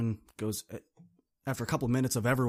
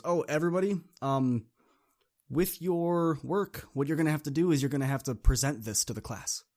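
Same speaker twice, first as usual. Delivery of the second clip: teacher announcement; 4 semitones higher, 4 dB louder than usual. Retold or imitated.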